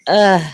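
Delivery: exhausted groan. Acted. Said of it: "And I'm like".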